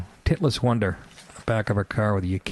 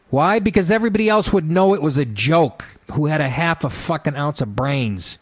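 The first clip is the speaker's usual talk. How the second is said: angry rant; 3 semitones higher than usual. Real, not acted. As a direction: hammer it home furiously.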